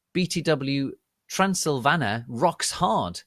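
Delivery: loud, high angry rant; ranting author's note. Acted. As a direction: rant at the readers. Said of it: "Author's note".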